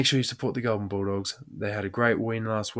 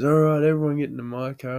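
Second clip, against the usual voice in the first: rally the group, louder and a bit higher; raised, eager announcement; acted calling out; 4 semitones higher, 6 dB louder than usual. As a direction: imitate a mate herding everyone along. Acts mate rallying the group.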